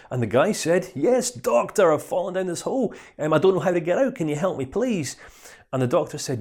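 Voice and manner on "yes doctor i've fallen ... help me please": higher, plaintive plea for help; mild mock desperation; pleading man. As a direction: beg the doctor to get you out. Stuck man begs doctor.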